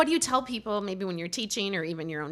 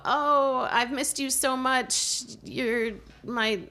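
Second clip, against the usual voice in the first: hammed-up pun scene; 6 semitones higher, slower than usual. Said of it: "it's like, you know".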